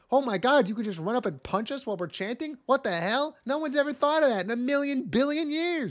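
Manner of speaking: high, incredulous outburst; hammed-up sarcastic disbelief; mock amazement. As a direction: act astounded by the obvious, pitch jumping up. Mocks the demon's amazed reaction.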